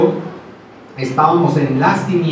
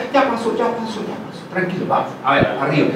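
soothing mother; 3 semitones higher, 3 dB quieter, faster than usual. Retold or imitated. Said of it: "las mamás que con ternura".

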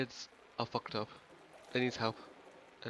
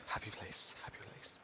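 self-calming; 8 dB quieter than usual. Real, not acted. Calming himself after scare.

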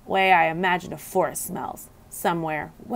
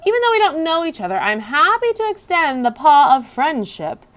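higher, faster, a bit louder hamster voice; louder squeak; 8 semitones higher, 4 dB louder than usual. A narrator's reading. Hamster repeating to the frog, squeaking louder. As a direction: squeak it out quickly and eagerly. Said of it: "I squeaked a bit louder this time".

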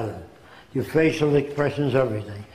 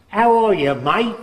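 put-on higher, louder "How are you, mate?" in a light Australian accent; a cheery Australian greeting, barely voiced; 6 semitones higher, 4 dB louder than usual. Old man imitating an Australian greeting, light Australian accent. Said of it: "that guy comes from Australia".

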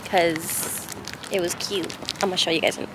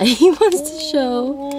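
laughing; 7 semitones higher, 3 dB louder, slower than usual. Real, not acted. Laughing while showing his hat.

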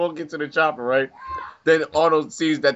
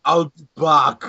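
Terminator quote; 5 dB louder, slower than usual. Pretend. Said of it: "I am the Terminator".

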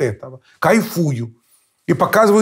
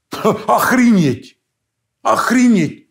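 incredulous outburst; 7 semitones higher, slower than usual. Real, not acted. Outraged at absurd claim.

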